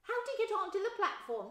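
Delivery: nervous stammer. Acted.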